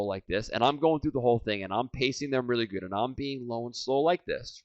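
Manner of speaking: softened, even pacing; low and slow. Shown as a demonstration. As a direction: keep it soft and even to match them. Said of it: "they're real low and slow".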